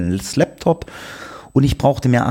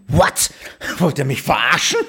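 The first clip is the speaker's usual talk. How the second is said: laughing disbelief; 4 semitones higher than usual. Retold or imitated. Outraged reaction to hotline transfer.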